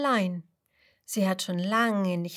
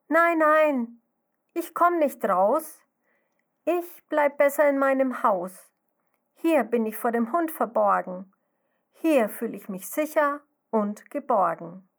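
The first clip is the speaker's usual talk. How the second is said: scared little snail; 5 semitones higher, 6 dB louder than usual. Acted. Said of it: "Also ruft sie dem Schmetterling zu".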